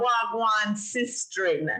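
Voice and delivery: slow, Wagwan sistren with a falling end; patois greeting. Shown as a demonstration. Host teaching Gabby the greeting slowly.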